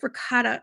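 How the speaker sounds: "ricotta" said "rih-cotta" with a flat t; "ricotta" the American way. Shown as a demonstration. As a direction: say "ricotta" the way that makes her wince. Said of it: "it's not ricotta".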